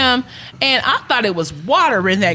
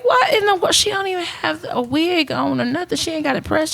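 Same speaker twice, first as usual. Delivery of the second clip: mock shocked voice; 7 semitones higher than usual. Mocking the girl's looks.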